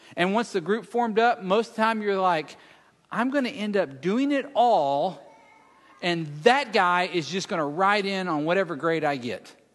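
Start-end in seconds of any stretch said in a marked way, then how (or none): none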